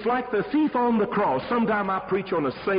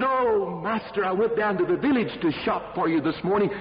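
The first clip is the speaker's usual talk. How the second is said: higher, rushed and panicked; a servant who has just seen Death, pleading in terror; frightened servant; 5 semitones higher than usual. Acted. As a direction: beg the master to let you flee. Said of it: "He said".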